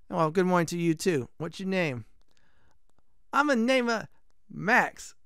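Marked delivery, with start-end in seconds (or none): 3.3-5.1 higher, hammed-up Italian blacksmith; bad Italian accent. Blacksmith introducing himself, bad Italian accent. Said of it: "this is gonna be very bad Italian accent".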